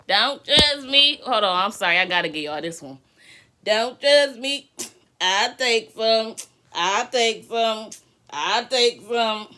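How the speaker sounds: loud, slow, drawn-out hype; hyper shout. Real, not acted. Streamer hyped up and yelling, drawing the words out. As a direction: belt it out hyped. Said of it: "I'm hyper".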